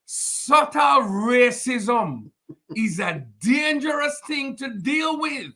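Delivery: put-on slow Jamaican accent, drawn out. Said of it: "because you were doing a Jamaican accent".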